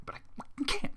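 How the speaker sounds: breathless whispered despair; whispered aside. Real, not acted. Reader breaking off from the story, whispering in despair. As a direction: whisper it to yourself, defeated. Exasperated aside mid-reading.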